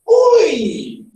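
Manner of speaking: high, falling exclamation; exclaimed greeting. Acted. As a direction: start high and slide down. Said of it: "alguém fala assim".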